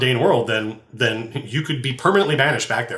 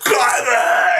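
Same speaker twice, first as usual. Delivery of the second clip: mock death gurgle; 7 semitones higher, 4 dB louder than usual. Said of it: "pulls out a knife and goes".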